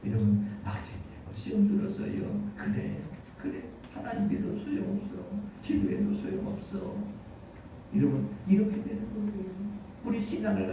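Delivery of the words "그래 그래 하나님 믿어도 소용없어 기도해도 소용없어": subdued, giving-up believer's voice; imitated resignation. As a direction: act out mild defeat after being tempted. (체념한 듯한 말투 흉내)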